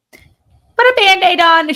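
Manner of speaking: put-on high, slow Texas accent; mother-in-law's Southern drawl, hammed up; Texan drawl. Imitating the Texan mother-in-law shrugging off a fall, in a Texas accent. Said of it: "she doesn't have that accent like I'm doing".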